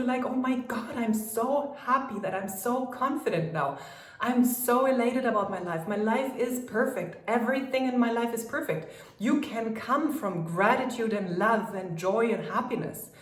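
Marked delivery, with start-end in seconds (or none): 0.2-8.9 higher, bubbly and thrilled; elated. Shown as a demonstration. Coach showing an elated affirmation, higher and bubbly. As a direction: gush with joy. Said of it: "use those emotions and go into".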